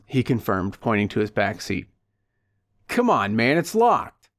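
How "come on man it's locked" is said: raised, impatient yell, pitch jumping up. Acted. Man yells from outside the locked car door. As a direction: call out over a locked door. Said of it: "yelled out the brawny man".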